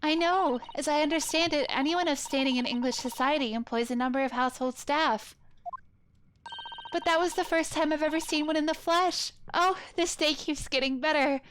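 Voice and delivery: delighted polite assistant. Acted. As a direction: play an eager, well-spoken assistant. Voices Susato delighted by the maid.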